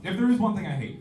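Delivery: ramp up high and loud on the build; loud rant opener. Real, not acted. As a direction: launch the pet-peeve rant.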